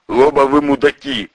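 no room for argument; flatly dismissive. Acted. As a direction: boss cutting them both down. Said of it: "безапелляционно бросил огнемёт".

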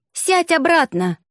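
high, slow squeak of a trapped man; squeaky plea. A narrator's reading. Trapped rector squeaking at the witch, high and slow.

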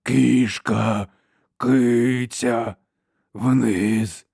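slow rasping monster voice; harsh cracked giant voice. A narrator's reading. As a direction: drag out each word like a simple-minded brute. Giant repeats.

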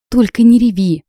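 pleading. A narrator's reading. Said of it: "взмолился".

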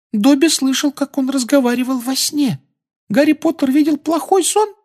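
very high shy elf voice; anxious little house-elf; timid squeaky elf. Acted. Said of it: "робко глядя на собеседника".

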